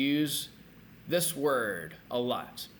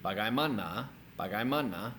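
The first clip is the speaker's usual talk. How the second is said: Bagaimana with the final NA stressed; stress on last syllable. Shown as a demonstration. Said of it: "It's on the last one".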